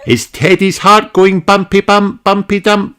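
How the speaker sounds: high, friendly doctor; kindly doctor greeting a child; Doctor Polar Bear voice. Acted.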